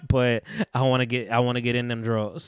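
chuckling mock proposal; laughing through it. Suitor asking father for daughter, laughing through it. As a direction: laugh while pleading to the dad. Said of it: "he's like".

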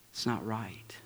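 breathy whisper, almost unvoiced; hushed admission; whispered aside. Real, not acted. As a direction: drop to a confessional whisper. Preacher drops to whisper.

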